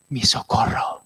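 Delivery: whispered psalm verse, no voice. Acted. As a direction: breathe the words out unvoiced. Susurra el verso del salmo. (susurro sin voz, casi un secreto)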